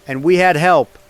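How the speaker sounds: loud and swelling, rallying the nation; rousing loud speech. Acted. President on his last broadcast, rousing the nation loudly. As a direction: raise the voice to honour the fallen warrior.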